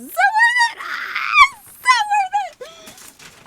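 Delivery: very high, slow, crying with excitement; overwhelmed fan at the final gift, crying squeal; tearful squeal. Real, not acted. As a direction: squeal it through happy tears. Climax of the unboxing.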